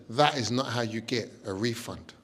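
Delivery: lightly posh Lily. Retold or imitated. Posh friend Lily voiced.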